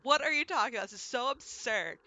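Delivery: high, loud mock protest; giggly protest. Teased kid answering mom's accusation, giggly mock protest. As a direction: imitate a kid loudly protesting the absurdity. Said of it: "like, giggle and be like".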